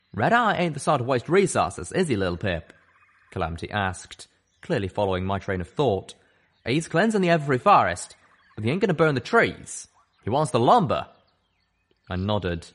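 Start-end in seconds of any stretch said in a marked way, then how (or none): 0.1-11.1 piecing it together; drawling stallion. Acted. Stallion explains the enemy's plan, knowing.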